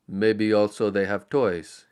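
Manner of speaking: slow, lightly hopeful Carl; a touch of childlike hope. Acted. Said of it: "he suggested hopefully".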